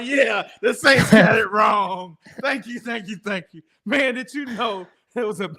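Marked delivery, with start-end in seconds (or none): 0.0-3.6 laughing gloat. Retold or imitated. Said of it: "I was like".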